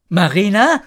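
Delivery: tender lift on the name; loving call. A narrator's reading. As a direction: call her name fondly. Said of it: "rief er liebevoll".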